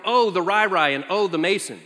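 a hint of a small child naming her dad; imitating a toddler. Father mimicking his little daughter, lightly childlike. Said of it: "she used to start every name with".

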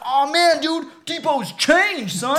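high, loud, drawn-out marvelling; mock amazement. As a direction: marvel in a high voice, stretching the words. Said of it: "and he's like".

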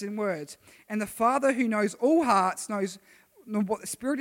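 slow, loud Bible reading; lightly heightened scripture read. Acted. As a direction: read the verse out with weight. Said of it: "So Romans eight, another Bible verse".

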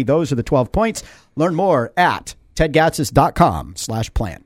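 steady radio ad read. Acted. Host reading the mayor's twelve-point plan, ad-read voice. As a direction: list the points like a sponsor spot.

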